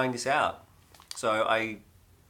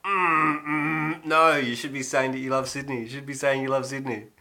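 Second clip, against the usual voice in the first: mock Melbourne local; 4 semitones higher than usual. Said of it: "'cause they'd be like".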